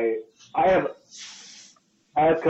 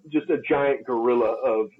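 normal talking voice

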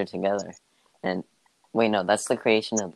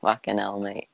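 Australian accent. Shown as a demonstration. Showing a friend how it goes, in an Australian accent. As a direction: demonstrate the phrase in an Australian accent. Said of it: "in the most Australian accent I could".

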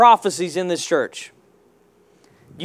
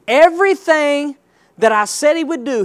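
excited; 4 semitones higher than usual. Real, not acted. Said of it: "that ought to make you shout".

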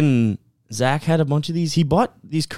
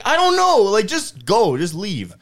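exasperated mom; 7 semitones higher than usual. Retold or imitated. Mom sending the stranger away, exasperated. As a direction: imitate a fed-up mother. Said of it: "she's like".

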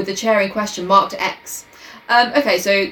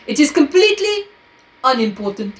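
Poirot pronouncement; 6 semitones higher than usual. A narrator's reading. Poirot's dramatic line in story.

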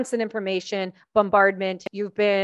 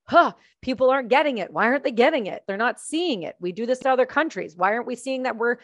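acted-out worried questioning, pitched up; nervous disbelief; 4 semitones higher than usual. Speaker voicing worry that their country isn't seeing it, nervous disbelief. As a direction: voice your own baffled inner alarm. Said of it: "that's what makes me nervous".

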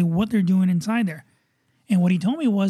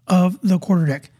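upbeat radio host intro read; show announcer; 4 dB louder than usual. Acted.

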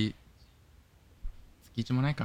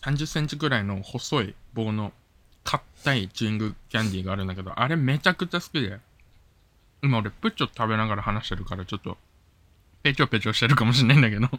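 talking while chewing candy; mouth full. Real, not acted.

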